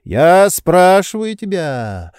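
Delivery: high, slow, reproachful lecturing; a pampered master scolding his servant; indignant master. A narrator's reading. Oblomov stops Zakhar.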